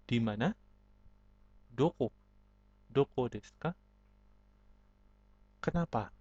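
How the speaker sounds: normal talking voice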